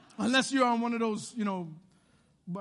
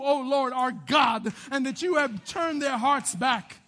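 building prayer. Acted. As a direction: start hushed, then build as you plead. Elijah's prayer read out, building.

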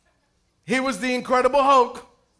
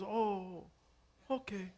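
put-on small kid voice; 4 semitones lower, 18 dB quieter, much slower than usual. Pastor voices small godson.

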